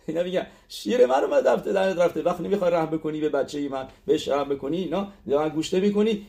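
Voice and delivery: a hint of a mother begging for her son; pleading mother. Teacher acting the mother begging the rabbi to show mercy, mildly voiced.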